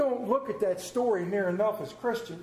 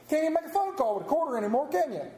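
quick rhetorical aside; 8 semitones higher, faster than usual. Acted.

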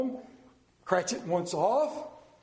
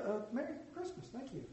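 flustered reply; 5 semitones higher, 13 dB quieter, faster than usual. Retold or imitated. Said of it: "Oh, yeah".

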